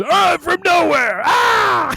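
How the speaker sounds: very high, slow, drawn-out taunting tone. Imitating how a wrestler called out a move: imitating Tommaso Ciampa. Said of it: "I'd look like Tommaso Ciampa, you know, when he was kinda doing his".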